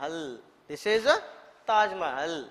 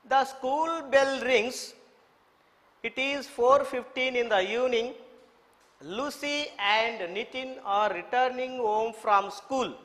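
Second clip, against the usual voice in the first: put-on measured read-aloud for children to follow; model reading; 3 semitones higher than usual. Shown as a demonstration. Teacher reading the lesson to children, model reading. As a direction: read out clearly, phrase by phrase, pausing between sentences. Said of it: "Model reading".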